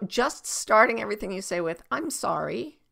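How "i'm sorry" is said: gentle, sincere "I'm sorry" with a lift at the end; genuine apology. Shown as a demonstration. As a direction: apologise as if you mean it. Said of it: "in a genuine voice".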